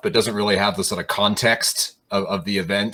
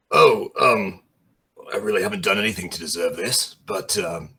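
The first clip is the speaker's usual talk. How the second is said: bashful thanks. Acted. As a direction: fumble for words, then whisper your gratitude. Shy dragonborn receives a hug.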